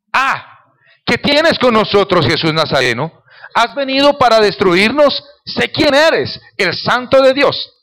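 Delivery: loud, high-pitched outcry of an unclean spirit; crying out. Acted. Possessed man confronting Jesus in the synagogue, crying out. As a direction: cry it out at Jesus, high and forceful. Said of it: "con espíritu inmundo que dio voces".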